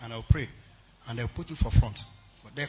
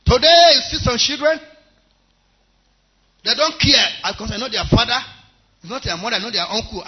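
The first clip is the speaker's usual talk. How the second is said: much higher and louder, scolding; preaching shout; 9 semitones higher, 12 dB louder than usual. Real, not acted. Preacher to congregation about disrespectful children, scolding shout. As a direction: rebuke them at full force.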